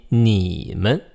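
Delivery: 你 in 你们 drawn out low and level; low flat tone. Shown as a demonstration. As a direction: keep 你 low without rising. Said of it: "It's just a low flat tone".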